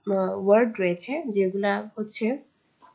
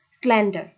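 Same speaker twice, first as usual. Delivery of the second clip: স্ল্যান্ডার with pressure on "SLAND", lighter "er"; স্ল্যান্ডার, front syllable punched, ending falls; stress on first syllable; 3 dB louder than usual. Shown as a demonstration. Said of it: "স্ল্যান্ড এর উপর একটা pressure".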